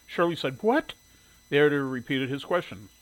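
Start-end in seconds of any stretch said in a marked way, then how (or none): 0.6-0.9 high, loud, sharp query; indignant surprise. A narrator's reading. Shirley thrown by the editor's question, indignant surprise. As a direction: blurt it as a baffled question.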